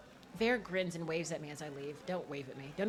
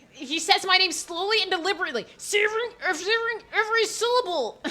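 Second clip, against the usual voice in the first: high, loud, laughing mock seduction; mock seductive read; 11 semitones higher, 9 dB louder than usual. Shown as a demonstration. Streamer rereading the line to chat, high and laughing. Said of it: "They're being seductive".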